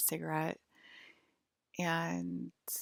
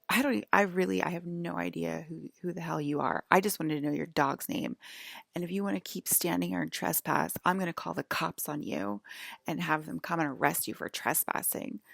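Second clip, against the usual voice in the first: retold irritated rant, louder bursts; hostile old lady; 4 dB louder, faster than usual. Old lady warning a trespasser off, mock hostile rant. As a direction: imitate a hostile woman threatening an intruder. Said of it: "not hostile and not insane".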